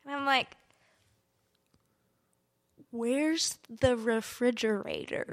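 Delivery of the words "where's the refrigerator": slow, drawn-out lost question; mock helpless asking; retold bewildered question. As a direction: stretch it out, acting clueless.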